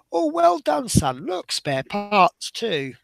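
mum voice. Retold or imitated. Mum praising son in advert.

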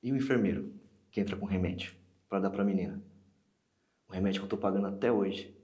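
aggrieved and loud; indignant. Acted. Acted outburst about costly useless treatment.

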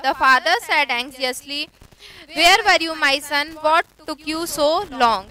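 unhurried reading of the story text; slow story reading. A narrator's reading. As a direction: read it slowly, word by word, for learners. Slow English reading aloud.

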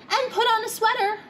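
mother's voice. A narrator's reading. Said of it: "her mother would add".

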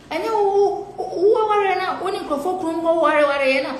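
high, laughing taunt; mocking. Real, not acted. Taunting a rival over her marriage, high and mocking. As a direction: sneer at her, pitched well up.

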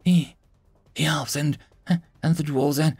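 high, stammering, tearful voice; halting high-pitched near-sobs; starting to weep. A narrator's reading. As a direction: break down word by word. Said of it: "she started to weep".

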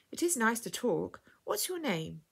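put-on warm, lilting question to a small child; inviting. A narrator's reading. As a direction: draw the child out gently. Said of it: "she asked invitingly".

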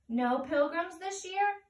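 Cricket voice. Acted.

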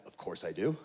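hushed eager Howie agreeing to fun; eager low reply. Retold or imitated. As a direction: murmur it with a grin. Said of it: "Howie goes".

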